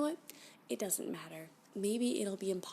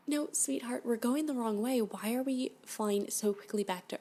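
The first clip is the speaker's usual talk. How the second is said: higher and louder, pleading; anxious protest; 4 semitones higher, 6 dB louder than usual. Acted. Captive protests to the alien that they fly the wrong way, anxious and loud. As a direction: stop him before it's too late.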